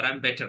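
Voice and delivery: "better" with a proper T sound; British pronunciation. Shown as a demonstration. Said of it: "so the T sound is proper".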